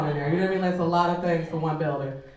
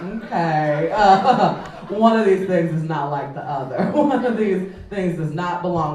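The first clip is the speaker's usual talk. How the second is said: laughing singsong quote; 5 dB louder, slower than usual. Retold or imitated. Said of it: "And I'm like".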